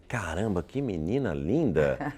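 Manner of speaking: drawn-out admiring exclamation; retold admiration. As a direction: linger slowly on the praise, retelling it. Reliving first sight on TV.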